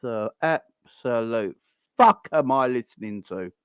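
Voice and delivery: slow, drawn-out incredulity; incredulous disbelief. Retold or imitated. Fan hearing Klopp's press conference, slow stunned disbelief. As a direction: stretch it out, stunned at what you hear. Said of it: "And I'm like".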